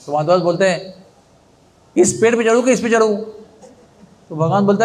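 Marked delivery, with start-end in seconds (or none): 2.0-3.2 calls out higher from up the tree, too loud; loud calling out. Acted. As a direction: shout the question into the dark. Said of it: "अरे जोर से क्यों बोल रहे हो".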